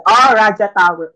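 "Raja Tower" loud and high, with hard J; J pronounced as English J. Retold or imitated. Driver finally understanding the address, "Raja Tower" with English J. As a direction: exclaim "Raja Tower" with J as in jam. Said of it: "you pronounce J as H".

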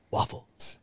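lightly voiced Shrek, Scottish ogre; a hint of Shrek announcing waffles. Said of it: "Is that Shrek?".

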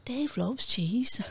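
slow whispered plan to herself; whispered thought. Retold or imitated. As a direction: breathe the scheme out slowly, softly. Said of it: "So I thought to myself".

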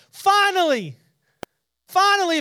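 high and loud, building excitement; rising preacher's fervour; excited emphasis. Real, not acted. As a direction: throw the word out with relief at last. Preacher stressing Peter's breakthrough.

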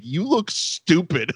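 slow, laugh-filled taunt; imitating him laughing at Crash; laughing quote. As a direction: say it while laughing. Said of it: "He's genuinely like".

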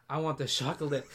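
"chocolate" mimicked with an sh, "shocolate"; mock order with "chocolate" starting SH; mocking his mispronunciation. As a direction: tease by saying "chocolate" as "shocklit". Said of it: "so he says chocolate".

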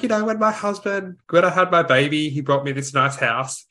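high, prim posh lady voice; posh mother-in-law. Retold or imitated. Retelling the sitcom joke, a high posh lady voice. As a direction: put on a snooty upper-crust lady. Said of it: "really posh".

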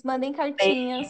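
goodbye through giggles; laughing. Real, not acted. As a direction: laugh while signing off.

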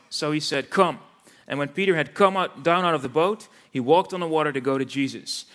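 measured Bible reading with pauses between phrases; scripture reading. Acted. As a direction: deliver the Gospel story as a read-aloud. Reads Bible passage aloud. (Bijbellezing, voorgelezen met pauzes)

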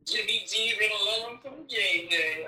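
teasing echo; mock repeat. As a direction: repeat it back, amused. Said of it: "This is hilarious".

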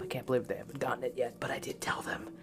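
quick secret whisper. Real, not acted. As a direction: whisper it as an aside. Aside about grandparents and app.

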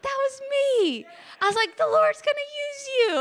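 high, cracking voice, close to tears; choked-up, tearful encouragement. Real, not acted. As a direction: let the voice break with emotion. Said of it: "As my voice still cracks".

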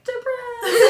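high laughing drawl. Real, not acted. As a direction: laugh through the word. Joking self-description, laughing.

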